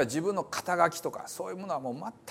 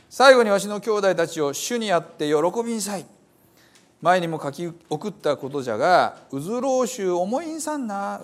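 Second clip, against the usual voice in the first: Paul's letter read in a lively Hiroshima dialect, a little higher; 3 semitones higher, 4 dB louder than usual. Acted. Preacher reading Paul's letter to the brothers in Hiroshima dialect. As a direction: read the scripture as a Hiroshima local would say it. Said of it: "あんまり使わなくなった広島弁ですが".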